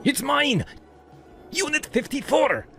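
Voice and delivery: high-pitched, indignant protest; outraged insistence, pitch soaring; angry ranting. A narrator's reading. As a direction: rant that the place is yours. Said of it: "while he ranted".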